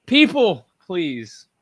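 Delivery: loud, pleading call to the crowd; exasperated plea. Real, not acted. Host scolds upset fans, a loud exasperated plea. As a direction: throw your hands up and call out to everyone.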